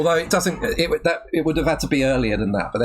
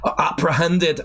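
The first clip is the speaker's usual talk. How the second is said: amateur mock Geordie; attempted Geordie accent. Reading the script, trying his best Geordie accent. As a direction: do your best Geordie while amused. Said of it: "I'm trying my best".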